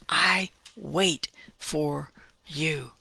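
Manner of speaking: slow, unvoiced whisper; slow whispered devotion; whispered prayer. Reciting David's prayer.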